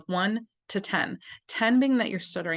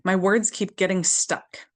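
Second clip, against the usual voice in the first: tapping affirmation; 3 dB louder than usual. Shown as a demonstration. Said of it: "Outside the eye".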